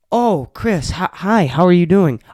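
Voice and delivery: a hint of cheery guest voice; mock guest greeting. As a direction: mimic the guests' chirpy greeting. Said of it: "What am I gonna say".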